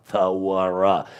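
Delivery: "Thawara" slowly in three separate syllables; sounded-out syllables. Shown as a demonstration. Teacher showing the hidden letter in Torah, syllable by syllable. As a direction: break "Thawara" open to expose the w. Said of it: "It's the second letter in Torah".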